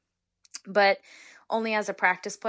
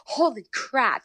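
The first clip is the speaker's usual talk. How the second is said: inner shock; 5 semitones higher, 4 dB louder, slower than usual. Retold or imitated. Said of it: "in my head".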